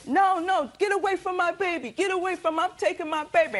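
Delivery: high, shouted demand; imitating a frantic grab; mock angry yell. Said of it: "and she said".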